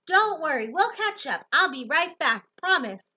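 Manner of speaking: loud, high reassuring calls; shouting back. Acted. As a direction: reassure Grammy over the noise, shouting. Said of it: "I shout back to her".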